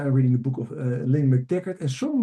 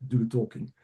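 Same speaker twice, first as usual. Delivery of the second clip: lightly acted hypnosis patter; a hint of a hypnotist's voice; hypnotherapist; 2 semitones lower, 3 dB quieter than usual. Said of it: "also I'm a clinical hypnotherapist".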